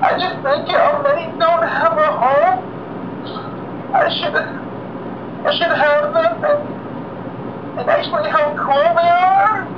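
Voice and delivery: mock crying. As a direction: overplay the tears over video games. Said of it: "I promised myself I wouldn't cry".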